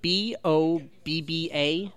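slow letter by letter; spelling it out. Real, not acted. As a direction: spell each letter slowly. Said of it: "Boba Fett".

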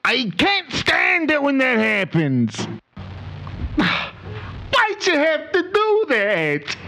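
mock yell, high and strained; yelling at a driver who cut him off; retold scream. Owner reenacting yelling at the driver. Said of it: "I screamed".

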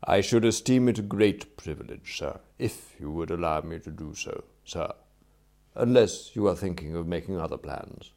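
lightly voiced butler, formal and composed; respectful valet. Valet tells employer returning would be a privilege, respectful and composed. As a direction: accept with courteous restraint.

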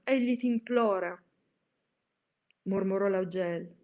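solemn, theatrical recitation of a dark poem; dramatic poem reading. A narrator's reading. Reciter performing The Raven to listeners, solemn and theatrical. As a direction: read it like a brooding gothic poem. Reads Poe's Raven aloud.

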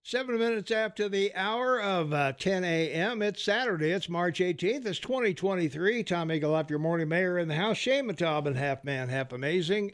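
brisk, continuous morning-radio station intro; radio announcer. Acted. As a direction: read the time and host intro like a DJ.

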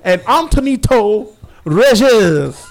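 loud, slow, hammed-up French host; mock French accent. Podcaster announcing fake host names, put-on French accent. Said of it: "I have a French accent".

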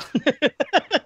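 sudden high laugh; high burst of laughter. Real, not acted. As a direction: laugh out loud, high and bright. Laughing at his own coughing.

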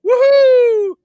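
high, giddy realization bursting into a whoop; mock glee. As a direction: act thrilled, building to a loud woohoo. Acts out his gleeful green light.

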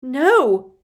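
horrified shout; loud, high cry of denial; Harry. A narrator's reading. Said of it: "shouted Harry".

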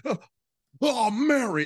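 high, loud hammed-up lover's moan; mock swooning George. Imitating George moaning to Mary in the phone scene, hammed-up. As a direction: ham up a lovesick man crying her name. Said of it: "'cause he's just like".

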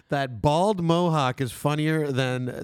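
slow, deliberate read-out; drawn-out delivery of a written jab; doing the line justice. Shown as a demonstration. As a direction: read the insult out slowly, giving every word its due. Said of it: "gotta give the line its justice".

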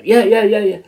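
high, loud rapid yeps from a wired man; over-caffeinated eager agreement; hyper eager. Retold or imitated. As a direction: fire off the yeps like you're buzzing on Red Bull. Wired on Red Bull, eager.

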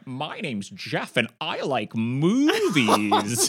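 slow, scrunched-up mocking voice laughing through it; mocking impression. Classmate mimicking Jeff, slow scrunched impression with a laugh. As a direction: squeeze yourself small and drawl it out. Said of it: "scrunching themselves up going".

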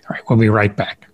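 a playful whisper before the break. Acted. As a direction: whisper it like a secret aside.

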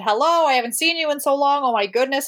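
excited greeting. Retold or imitated. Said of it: "she hugged her and said".

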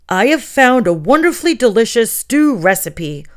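put-on old talking tome offering a recipe; hissing old book. A narrator's reading. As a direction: let every sound hiss like dry pages. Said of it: "his pages rustled, making every sound hiss".

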